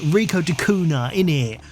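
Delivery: hammed-up London accent, dropped d in de; a mock Cockney London twang on Rico de Cunha; jokey London accent tacked onto the name; terrible London accent. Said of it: "I should do it with a terrible London accent".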